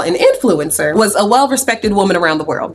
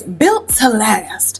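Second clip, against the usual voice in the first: musing repeat; much slower than usual. Acted. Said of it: "Jean says".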